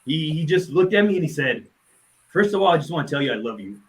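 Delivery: fighting tears, struggling to get the words out; choked up. Real, not acted. Grieving friend recalling the last visit, choked up. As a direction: voice catching, long pauses to hold back tears.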